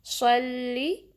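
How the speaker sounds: सल्ली slow, the स full and heavy; slow careful recitation; heavy sad. Shown as a demonstration. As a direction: say सल्ली with a heavy स and a short sharp ली. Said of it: "लाम को बारीक रखना है".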